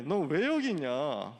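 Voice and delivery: slow, drawn-out mock question; teasing question. God asking Elijah why he is here, slowly, as if teasing. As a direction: tease him with a lingering question. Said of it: "뭔가 놀리는 것 같지 않아요?".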